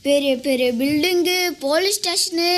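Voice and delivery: acted wide-eyed wonder, pitch lifting; amazed wonder. Time traveller first seeing the future town, amazed. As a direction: marvel aloud, drawing out the last question. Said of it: "எனக்கே ஆச்சரியமா இருக்கு".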